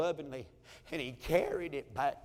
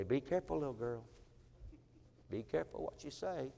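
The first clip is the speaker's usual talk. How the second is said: fatherly warning; 8 dB quieter than usual. Retold or imitated. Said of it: "And I say".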